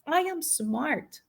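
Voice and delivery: high, firm, pushing back at the voice; defiant self-talk. Retold or imitated. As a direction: shut the inner critic down. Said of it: "I say".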